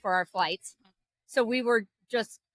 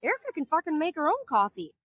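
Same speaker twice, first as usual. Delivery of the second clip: sassy retort; 5 semitones higher than usual. Retold or imitated. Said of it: "I said".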